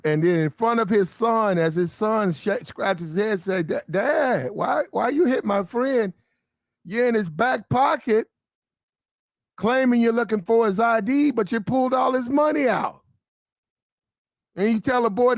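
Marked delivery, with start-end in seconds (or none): 3.6-13.0 put-on lightly raised, whiny kid asking his dad; a hint of a hurt little boy; kid's voice. Son confronting his dad, a touch high and whiny. Son questioning father in acted scene.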